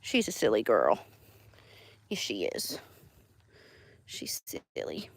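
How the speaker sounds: low murmur fading to whisper. Real, not acted. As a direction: coo softly, then whisper. Cooing to emu, fading.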